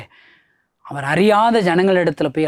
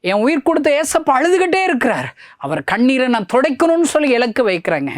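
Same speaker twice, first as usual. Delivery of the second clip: full-force preaching; 9 semitones higher than usual. Acted. Preacher promising to wipe Jesus's tears, pleading full-force cry.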